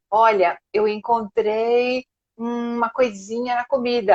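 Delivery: slow, hesitant mock tact; roundabout politeness. Brazilian diner delicately reporting something in the food, mock-hesitant. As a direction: stretch it out, tiptoeing round the complaint. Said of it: "dá cinquenta voltas antes de dizer".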